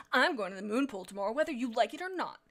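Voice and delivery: quick, mildly petulant retort; angry defiance. Acted. Vixen Heart announcing her moon pool trip, mildly angry. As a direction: toss it out with childish defiance. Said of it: "Vixen Heart swiveled around angrily".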